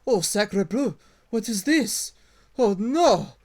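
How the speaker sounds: high, loud panicky little lizard voice; French kobold. Acted. Game master voicing kobold finding the dead, high and loud. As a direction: squeak it out high and loud in alarm. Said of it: "he walks up to you and he goes".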